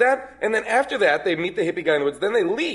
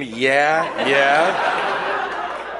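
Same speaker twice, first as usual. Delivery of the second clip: imitating bird scream; 4 semitones lower than usual. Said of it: "a bird screaming".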